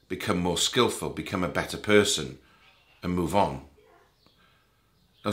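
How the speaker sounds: calm meditation guide with long pauses between phrases; guided meditation. Real, not acted. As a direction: guide the listener gently, leaving space after each thought.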